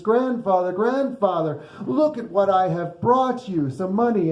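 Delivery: a touch of breathless storybook excitement; excited child. Acted. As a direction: call out proudly, eager to show a find. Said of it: "so excited".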